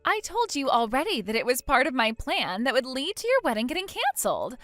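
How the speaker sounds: lively, swooping self-satisfied gloat; gloating villain. Acted. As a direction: rub the victory in with relish.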